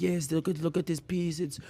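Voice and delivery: a light, soft-spoken imitation of a French accent; a hint of a French art seller, said quietly; lightly imitating a French accent. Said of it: "he has this, like, French accent".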